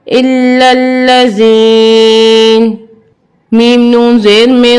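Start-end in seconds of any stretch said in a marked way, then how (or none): 0.1-2.7 slow pause reading with a stressed, lengthened إلا; pause-form recitation. Shown as a demonstration. Tajweed teacher demonstrates the pause form, slow chant. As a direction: stretch إلا and end الذين on a stop. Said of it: "وقفاً".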